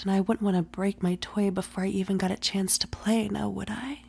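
soft teasing whisper; breathy ASMR whisper. Acted. Whispered roleplay.

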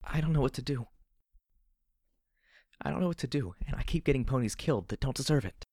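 high, distressed, helpless voice; despairing, voiced whisper. Heroine confesses she is lost, despairing near-whisper. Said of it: "I whispered".

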